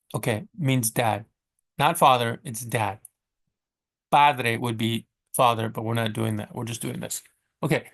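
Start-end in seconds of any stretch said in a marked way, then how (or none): none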